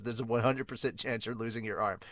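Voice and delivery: lightly voiced Hawkins. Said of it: "Hawkins, while reading the tarot".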